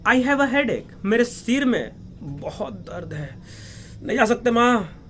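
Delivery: high-pitched mock wail of pain; wailed complaint. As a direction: act out a child crying out to mother about a headache. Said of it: "चिल्ला कर कहा".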